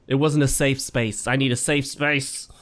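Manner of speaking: mock-wounded complaint; mock distress. Gamer hit by fire, mock distress. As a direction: play up being a wounded snowflake. Mocking himself as snowflake after hit.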